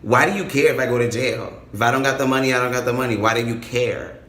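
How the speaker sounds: retold mild annoyance; a little annoyed. Storyteller challenging the caller over jail, a little annoyed. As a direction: push back at him, a touch irritated. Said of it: "I got a little bit annoyed with him".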